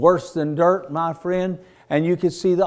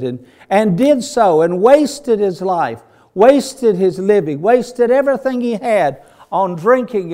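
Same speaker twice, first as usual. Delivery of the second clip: rhythmic, raised preaching voice; fervent preaching; 4 semitones higher, 5 dB louder than usual. Real, not acted. Preacher telling the congregation of the lost sheep, fervent preaching. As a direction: preach it out with punched key words. Preaches the prodigal son story.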